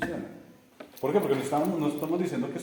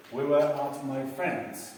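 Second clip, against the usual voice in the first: slow repeat; much slower than usual. Shown as a demonstration. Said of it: "Entonces, la misma historia".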